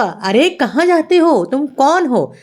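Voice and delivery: mildly acted sentry's challenge; challenging guard. A narrator's reading. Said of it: "पहरेदार ने टोका".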